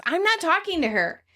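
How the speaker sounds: high, petulant refusal; whining. Retold or imitated. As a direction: whine it like a sulky friend. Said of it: "Monica is whining to Phoebe".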